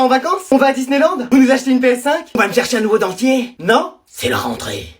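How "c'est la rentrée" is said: much lower and softer, ominous; a teacher's low, ominous announcement. Acted. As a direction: drop the voice low and quiet for a dread reveal. Ominous reveal.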